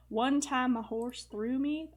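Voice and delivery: slow, easy Western accent, only lightly put on; a hint of a Western accent for a Scottish princess. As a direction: drawl it a little in a Western accent. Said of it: "I don't know why I'm doing my Western accent".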